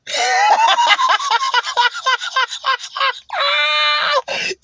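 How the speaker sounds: loud high shriek of laughter. Real, not acted. Bursts out at the clip.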